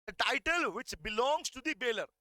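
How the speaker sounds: slow, deliberate reading of the law text; slow dictation. Shown as a demonstration. Teacher dictating slowly to students. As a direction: dictate each word slowly to the class. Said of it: "वहाँ लिखो बेटा".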